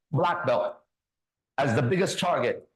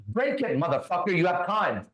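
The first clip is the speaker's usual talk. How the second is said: high, half-volume re-enacted yell; retold yell; 4 semitones higher than usual. Pinned black belt goading his opponent before class, mock yell. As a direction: start high, daring him, without full volume. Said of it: "I yell out these words".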